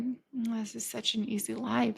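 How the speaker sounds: soft, content sigh of a thought; dreamy musing. Retold or imitated. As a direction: murmur it, tempted and at ease. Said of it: "I was like".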